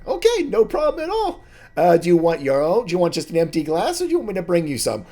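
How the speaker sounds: very high, loud squeaky halfling; chirpy barkeep greeting old friends; a high squeaky halfling barman; halfling bartender. Acted.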